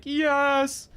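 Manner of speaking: bright high-pitched cheer; excited, drawn-up yes; eager yes. Retold or imitated. Friends answer her promise of a collab, eagerly.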